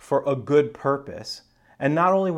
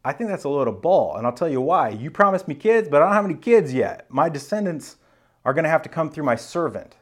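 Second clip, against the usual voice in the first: higher-pitched, protesting objection; skeptical complaint; 3 semitones higher, 3 dB louder than usual. Retold or imitated. Abraham protests to God about having no kids, skeptical complaint. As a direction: argue back at an empty promise. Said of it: "And Abraham says".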